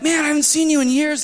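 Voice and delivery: high, bright mock greeting of an old friend; cheery old friend. Friend in the car greets him after years, high mock greeting. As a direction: toss it off like a surprised old pal. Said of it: "he's like".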